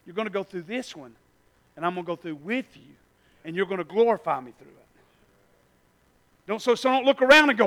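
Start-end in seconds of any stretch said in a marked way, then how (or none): 0.0-4.8 soft God voice. Pretend. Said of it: "He says".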